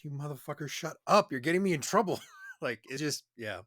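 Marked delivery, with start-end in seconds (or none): 0.0-2.2 mock angry scold. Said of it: "I was like".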